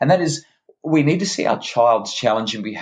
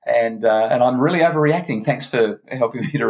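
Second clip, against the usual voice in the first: a hint of a mock-contrite child, higher; 5 semitones higher than usual. Child to parent, mock obedient. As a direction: play the child agreeing far too neatly. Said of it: "have you ever seen a child say".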